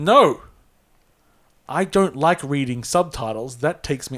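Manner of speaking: cross, irritated, angry voice. Quoting another man's reply to your suggestion, mock-angry retelling. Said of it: "I'm making him sound angry here".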